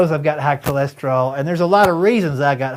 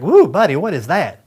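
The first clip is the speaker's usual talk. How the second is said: retelling a friend lunch, startled woo; surprised; 5 dB louder than usual. Retold or imitated. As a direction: react to a bad bite. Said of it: "I'm like".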